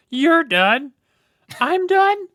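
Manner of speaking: loud, high-pitched imitation of two people yelling; hammed-up shouted back-and-forth; mock shouting match. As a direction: bellow both sides of a silly argument. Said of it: "he gets in shouting matches where he goes".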